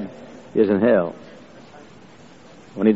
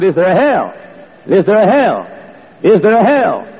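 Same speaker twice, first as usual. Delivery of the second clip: each repeat higher and louder, building to a shout; building insistence; 8 semitones higher, 3 dB louder than usual. Retold or imitated. Preacher pressing a young man, building to a shout. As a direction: hammer the question harder every time.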